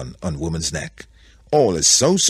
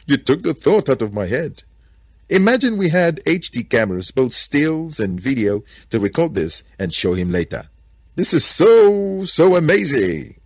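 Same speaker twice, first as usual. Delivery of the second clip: high, loud gushing delight; excited gorilla; 8 semitones higher, 6 dB louder than usual. A narrator's reading. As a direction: gush with wonder, stretching the exclamation at the end.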